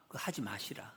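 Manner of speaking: whispered, almost voiceless warning; soft whisper. Acted. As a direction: hush the words like a private plea. Mimicking a gentle rebuke.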